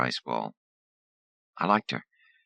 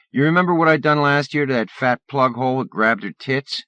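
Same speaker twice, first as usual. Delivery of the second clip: taunting bully; 10 semitones higher, 6 dB louder than usual. Acted.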